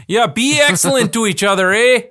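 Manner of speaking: hammed-up dude voice with a Canadian eh; Bill and Ted dude voice. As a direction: channel a laid-back movie dude. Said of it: "Can't do it in the wrong voice".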